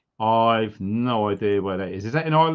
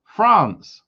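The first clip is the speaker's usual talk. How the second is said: excited; 7 semitones higher, 7 dB louder than usual. Real, not acted. Repeats the viewer's country excitedly.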